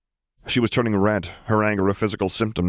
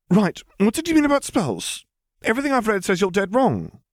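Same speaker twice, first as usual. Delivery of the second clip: put-on higher, chattering know-it-all girl; eager girl telling the famous girl about books, higher; eager schoolgirl. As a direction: gush like a bookish girl meeting a celebrity. Hermione challenging.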